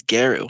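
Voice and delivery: Garu as "GAIR-oo"; mispronounced Garou. Retold or imitated. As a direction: quote the mistaken Garu with an "air" vowel. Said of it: "not how you pronounce his name".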